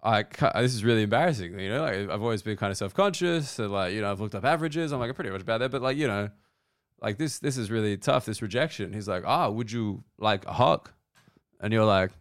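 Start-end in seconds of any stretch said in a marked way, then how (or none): 0.0-8.9 quiet, embarrassed confession; sheepish, softened mock embarrassment; acted shame. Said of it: "just so ashamed". 9.3-10.9 mock German accent. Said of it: "the Dutch accent as a German guy".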